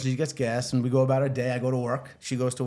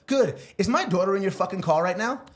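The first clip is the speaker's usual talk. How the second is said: angry mom; 5 semitones higher than usual. Retold or imitated. Mom on the car phone, furiously demanding if her daughter is there. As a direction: blast it like an enraged mom.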